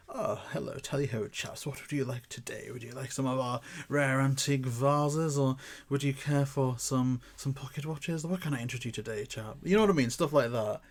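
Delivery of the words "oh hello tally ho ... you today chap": lightly put-on posh London accent. Antique dealer greeting shop customers, light upper-class London accent. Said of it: "I can get that posh accent".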